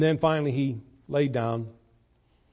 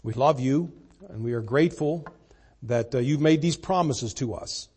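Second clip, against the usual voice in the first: prayer. Acted. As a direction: speak humbly to God. Closing prayer.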